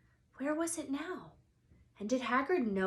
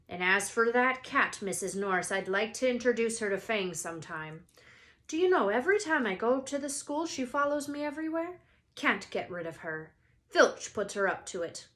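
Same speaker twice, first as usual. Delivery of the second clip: louder, faster grumbling giant; lightly voiced Hagrid complaining; 6 dB louder than usual. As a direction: rant about the cat. Hagrid complains about cat.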